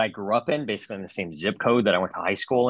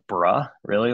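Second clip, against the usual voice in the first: questioning, a bit louder pushback; incredulous echo; 3 dB louder than usual. Retold or imitated. Client answering his banker's over-familiar greeting, incredulous. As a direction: throw the word back in disbelief.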